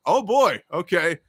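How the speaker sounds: imitating his own startled reaction; taken aback. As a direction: let the surprise jump out then settle. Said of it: "And I was like".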